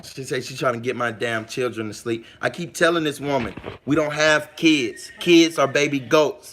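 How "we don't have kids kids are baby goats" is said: slow it down and lean on each word; slow pointed correction. Acted. Correcting his wife's word for their children, slow and pointed. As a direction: spell it out slowly like a pedantic correction.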